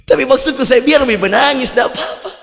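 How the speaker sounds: chuckling reply; laughing. Real, not acted. Preacher answers the worshipper while laughing.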